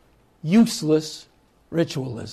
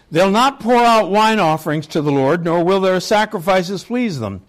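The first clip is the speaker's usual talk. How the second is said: measured, raised reading voice, solemn; scripture reading. Acted. Preacher reading Hosea to the congregation, solemn proclamation. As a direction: proclaim the text with weight.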